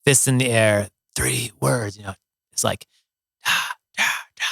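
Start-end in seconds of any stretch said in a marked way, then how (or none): 3.4-4.4 short chanted syllables, softly imitated; imitated crowd chant. Storyteller imitating the festival crowd's chant, lightly chanted. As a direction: mimic a distant crowd's chant. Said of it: "that wet sound of the chant".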